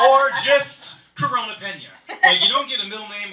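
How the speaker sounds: loud laughing through the words. Real, not acted. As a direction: laugh out the joke loudly. Laughing at own joke.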